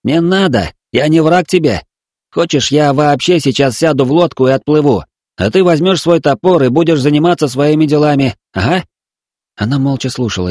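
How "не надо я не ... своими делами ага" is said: higher, sing-song coaxing; cooing to a child. Acted. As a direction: coo at her like at a toddler. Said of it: "он старался ворковать, словно разговаривая с несмышленым детём". (воркуя, как с несмышлёным ребёнком)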